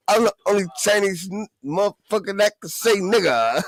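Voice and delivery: mock rapper voice. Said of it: "He said".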